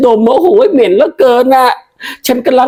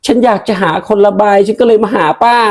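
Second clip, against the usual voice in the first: normal talking voice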